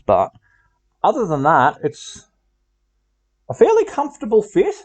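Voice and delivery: muffled, talking inside a helmet. Real, not acted. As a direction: speak through a closed helmet. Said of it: "I know how muffled the voice gets in here".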